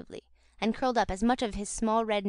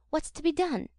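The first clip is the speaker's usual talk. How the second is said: alarmed exclamation; 7 semitones higher than usual. Acted. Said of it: "exclaimed Missus Sowerberry".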